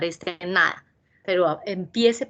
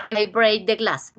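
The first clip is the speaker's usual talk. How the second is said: slow example sentence; slower than usual. Shown as a demonstration. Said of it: "ustedes cogen esta listica y empiezan".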